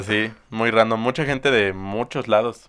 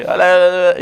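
put-on lightly high childlike greeting; a hint of a little boy saying hi; kid's voice; 8 semitones higher, 8 dB louder, faster than usual. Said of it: "habló con una voz que no te imaginas". (voz de niño, aguda)

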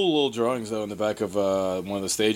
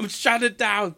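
high-pitched, half-laughing mock outrage; jokey put-on high voice; mock shutdown order; 10 semitones higher, slower than usual. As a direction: play the fed-up boss pulling the plug. Playing whoever closes the service.

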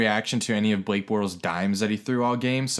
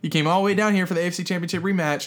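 retold challenge; 7 semitones higher than usual. Arguing back at rival fans.

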